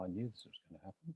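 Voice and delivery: soft, quiet. Unsure whether the audience can hear them, the speaker talks softly.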